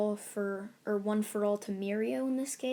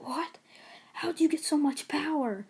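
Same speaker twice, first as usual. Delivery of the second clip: higher, louder cry of shock; shocked disbelief; 6 semitones higher, 4 dB louder than usual. Acted. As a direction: blurt it out, stunned. Rival shocked by power.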